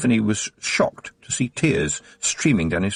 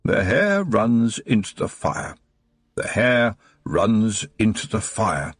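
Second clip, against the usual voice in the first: reciting from memory. A narrator's reading. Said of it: "as if he was reading from an invisible book".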